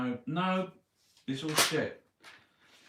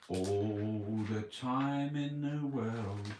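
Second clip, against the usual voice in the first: drawn out slowly; much slower than usual. Shown as a demonstration. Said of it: "we got all the time in the world today".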